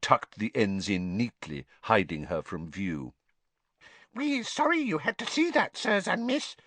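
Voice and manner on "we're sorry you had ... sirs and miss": high, sheepish house elf; ashamed elf squeak. A narrator's reading. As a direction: squeak it out apologetic. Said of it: "squeaked a nearby elf".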